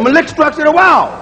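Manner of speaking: Malik struck to the wall, as mama said it; mama's pronunciation. Retold or imitated. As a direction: say it the home way. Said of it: "That's the way my mama said it".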